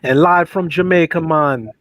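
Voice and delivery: put-on light Jamaican accent; a hint of a Jamaican radio host. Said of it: "black Jamaican accent".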